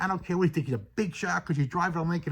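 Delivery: a hint of a stubborn lady talking back to the cop; defiant lady. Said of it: "the lady's getting defiant".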